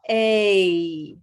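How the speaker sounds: "A" opening into a big smile; gliding A sound. Shown as a demonstration. Teacher demonstrating the A glide to students. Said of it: "So we'll start at".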